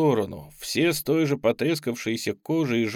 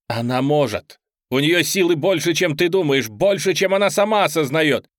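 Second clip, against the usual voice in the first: raised, pleading insistence; urgent raised voice; 3 semitones higher, 5 dB louder than usual. Acted. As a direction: push back hard at the demon. Priest answers the demon. (напористо, громко)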